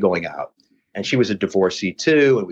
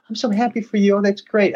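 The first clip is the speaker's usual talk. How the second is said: mock gushing ex; 13 semitones higher than usual. Retelling the ex's phone reply to his news, in a much higher mock gush. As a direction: play the ex-girlfriend overdoing her happiness. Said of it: "And she goes".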